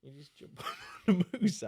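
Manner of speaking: a giggly, hammed-up Canadian "eh"; laughing mock Canadian. Cohost echoes the moose joke in a mock Canadian accent. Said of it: "we're doing it right at all".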